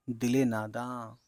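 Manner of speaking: دل ناداں said as dile nadaan, slow; izafat linking. Shown as a demonstration. Teacher reading out an Urdu phrase, slow izafat. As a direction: link دل to ناداں with a short e. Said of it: "جیسے".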